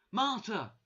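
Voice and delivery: high, loud cry of a name; shouting. A narrator's reading. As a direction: shout the name in sudden realisation. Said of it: "she shouted".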